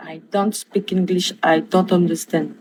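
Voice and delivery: slow English with a French accent; deliberate French-accented English. Real, not acted. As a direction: carefully pronounce the English phrase. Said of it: "j'essaie d'améliorer mon accent en anglais".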